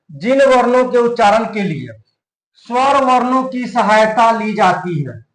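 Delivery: slow, word-by-word dictation of a definition; each word spaced for note-taking. Shown as a demonstration. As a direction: read it out slowly so they can write. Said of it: "teacher dictates the definition".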